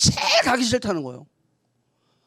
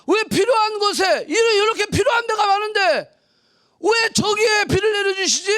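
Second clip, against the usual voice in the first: baffled outcry; 8 semitones higher than usual. Retold or imitated. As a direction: cry out in disbelief. Puzzled human questioning God. (이해 못 해 소리치듯 따지기)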